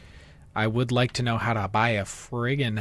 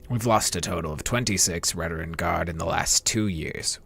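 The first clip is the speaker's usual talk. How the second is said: put-on Dark Elf accent. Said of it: "my Dark Elf voice got stronger as we progressed".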